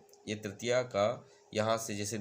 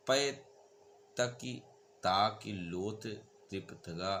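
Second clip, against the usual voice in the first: poem recitation. Shown as a demonstration. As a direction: recite the rola verse with pauses. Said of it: "जैसे". (धीमा काव्य पाठ)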